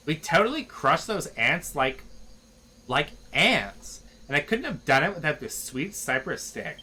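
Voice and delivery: a hint of Valley Girl hype; lightly voiced Valley Girl. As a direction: gush like a bubbly teen. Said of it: "speaking in this freaking accent".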